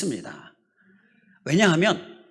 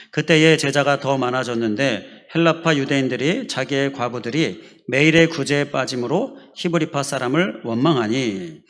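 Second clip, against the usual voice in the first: louder, measured congregational reading; scripture reading aloud; 4 dB louder than usual. Acted. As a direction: lead the congregation through the verse.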